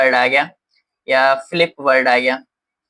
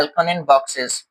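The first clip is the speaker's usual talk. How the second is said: drawn-out announcement of Alconin boxes; slow heading read; much slower than usual. Shown as a demonstration. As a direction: say Next we have is Alconin boxes very slowly, word by word. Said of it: "new heading announced".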